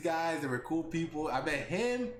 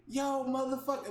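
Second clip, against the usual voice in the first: mock tough guy; 6 semitones higher than usual. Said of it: "I'm gonna act hard".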